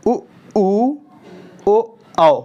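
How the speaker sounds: उ, ओ, औ sung out, rising high and loud on औ; demo back vowels. Shown as a demonstration. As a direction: call out ओ, औ with a high loud lift. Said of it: "देखो आ".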